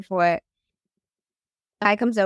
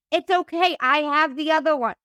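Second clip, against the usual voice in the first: higher-pitched, hurried-to-explain quote; eager reassurance; 5 semitones higher than usual. Retold or imitated. Retold reassurance to the finder.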